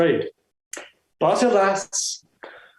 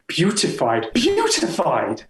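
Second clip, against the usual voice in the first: savoring the word. Acted. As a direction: linger on beautified like a poem. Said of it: "A poem in a single word".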